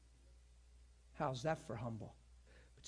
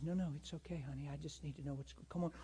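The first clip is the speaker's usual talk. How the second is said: softer, gentle comfort; 6 dB quieter, faster than usual. Retold or imitated. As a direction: comfort her tenderly. Pastor comforting crying woman.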